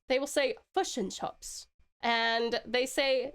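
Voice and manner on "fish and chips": put-on New Zealand accent saying "Fish and chips" as "fush and chups"; clipped Kiwi vowels, fush and chups. Streamer imitating how Kiwis order, New Zealand accent. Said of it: "when a Kiwi orders fish and chips".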